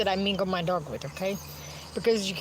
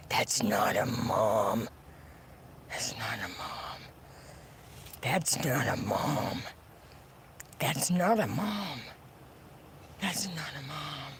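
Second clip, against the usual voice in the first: slow fading repetition; 9 semitones lower, 8 dB quieter, slower than usual. Real, not acted. Repeated denial, fading.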